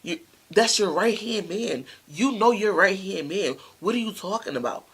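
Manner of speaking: loud, insistent accusation; retold heated scolding; acted indignant confrontation. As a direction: push back hard in disbelief. Acts out girlfriend confronting the friend.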